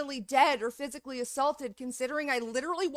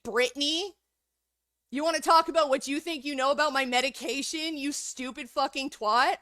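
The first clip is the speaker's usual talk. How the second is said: loud, taunting and furious; angry tirade; 2 semitones higher, 3 dB louder than usual. Real, not acted. Yelling at Brittany over her medication comments. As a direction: lay into her, mocking and loud. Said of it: "what I just yelled at you".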